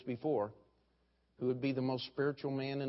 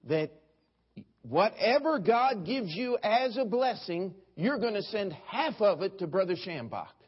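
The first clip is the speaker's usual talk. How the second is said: Schambach impression; 6 semitones higher, 3 dB louder than usual. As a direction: plead like a radio preacher. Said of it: "here was Brother Schambach, and here was his plea".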